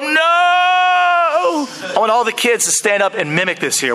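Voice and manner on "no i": anguished no. Acted. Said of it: "He tears his robe".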